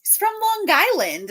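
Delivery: hammed-up puzzled retelling; playful baffled self-quote; mock confused. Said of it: "I was like".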